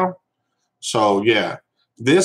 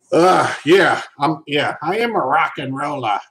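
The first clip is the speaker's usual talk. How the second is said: raised-pitch put-on English accent; mock English accent; 4 semitones higher, 4 dB louder than usual. Streamer playing along with viewer's question, mock English accent. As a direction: answer in a playful fake English accent, pitched up. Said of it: "I can't do the English accent as good as".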